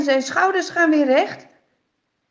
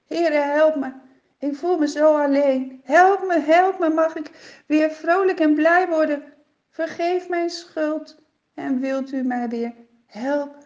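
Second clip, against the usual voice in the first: a lightly voiced King Saul begging God for help, higher; pleading prayer; 3 semitones higher than usual. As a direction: voice the king's lonely prayer, pleading. Saul's prayer voiced in the story.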